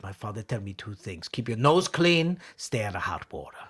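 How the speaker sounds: put-on comic Italian old man; old Italian husband. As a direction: recite father's advice, slowing and lifting midway. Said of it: "brings the guy in".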